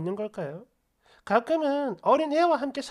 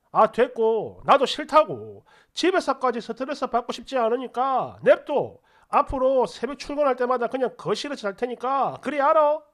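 fed-up ultimatum; 4 dB louder than usual. Retold or imitated. Wife ends the retold fight.

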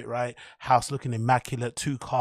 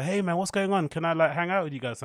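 lightly voiced innocent child, pitched up; higher, naive kid asking to join in; 4 semitones higher than usual. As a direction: ask like a hopeful little kid. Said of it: "super innocent".

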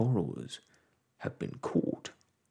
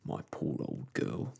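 softer, lower and tender; more gently; 10 semitones lower, 4 dB quieter than usual. A narrator's reading. Husband soothing his frightened wife, gentle and soft. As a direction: comfort her gently, bring it down. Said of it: "said Pod more gently".

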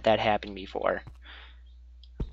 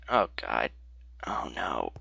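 low, hushed dread; whispered dread; scared whisper; 12 semitones lower, 11 dB quieter than usual. Real, not acted. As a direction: breathe it out in fear. Spotting danger below.

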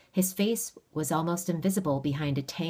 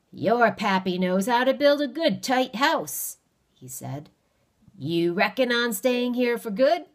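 sly stranger; 7 semitones higher, 6 dB louder than usual. Acted. Stranger voice held.

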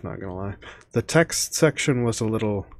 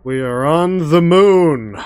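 surprised exclamation; 7 semitones higher, 9 dB louder, slower than usual. Real, not acted. Startled exclamation at video.

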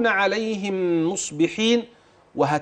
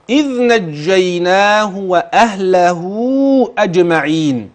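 slower measured chanting of the verse; Quran recitation; 4 dB louder, slower than usual. Acted. Teacher reciting the verse for the student, measured recitation. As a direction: recite it calmly, letting each word ring.

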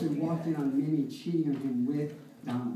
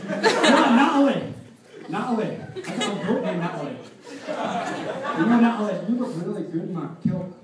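put-on Scottish accent; 4 dB louder than usual. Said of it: "a Scottish guy".

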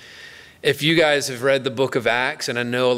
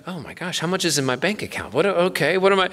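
mock panic; 3 semitones higher, faster than usual. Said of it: "he panicked".

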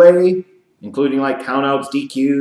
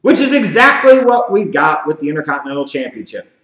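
usual speaking voice

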